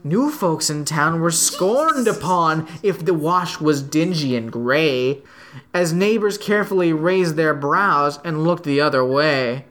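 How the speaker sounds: measured, lilting verse reading; poem recitation. Acted. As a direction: read it out in steady singsong metre. Reads a poem aloud.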